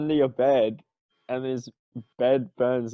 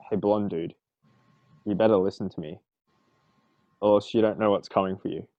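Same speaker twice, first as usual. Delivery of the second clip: lower, mock-menacing threat; serious intimidation; 5 semitones lower, faster than usual. Player's character threatening the blonde bard, mild mock menace. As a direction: try to sound tough, lightly hammed. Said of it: "put on a serious face and be like".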